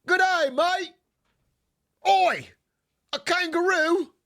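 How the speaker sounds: high, loud mock Aussie; Australian accent. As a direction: call out in a hammed-up Australian accent. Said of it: "I hit the accent so well".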